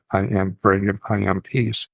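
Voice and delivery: three-beat rhythmic recitation; lightly sing-song, evenly stressed mantra. Shown as a demonstration. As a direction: give each word an even beat. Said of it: "saying it in sort of a sing-song voice".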